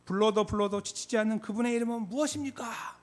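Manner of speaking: high, impassioned question to a crowd; preacher's rally question. Retold or imitated. Late pastor asking youth for the name, impassioned question. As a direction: call out the question like a revival preacher. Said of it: "이렇게 물어봐요".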